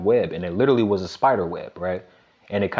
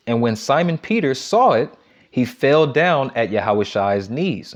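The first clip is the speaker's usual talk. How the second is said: slow, deliberate reading of a Bible verse; scripture reading; 2 semitones higher than usual. Acted. Preacher reads the verse to the congregation, slow and deliberate. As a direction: lift the verse out slowly for the congregation.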